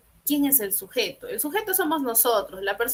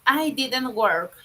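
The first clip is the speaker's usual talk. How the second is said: slow model sentence; much slower than usual. Shown as a demonstration. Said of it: "La expresión suena igual".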